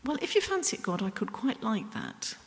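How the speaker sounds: light imitation of a casual prayer; mock half-hearted asking. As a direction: ask as if it hardly matters. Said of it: "covet is not".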